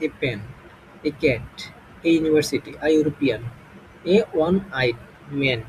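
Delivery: each word drawn out slowly; teacher reading an example slowly; slow demo example. Shown as a demonstration. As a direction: spell it out slowly for the class. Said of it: "যেমন a boy".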